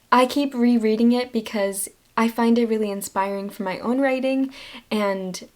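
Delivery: ordinary talk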